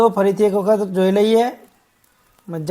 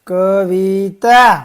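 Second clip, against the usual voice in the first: કવિતા stretched out, each syllable held. Shown as a demonstration. First slow reading of the word list.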